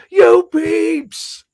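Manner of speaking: imitating friend's joke reply; Joe's comeback. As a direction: toss it back cheekily. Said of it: "And he goes".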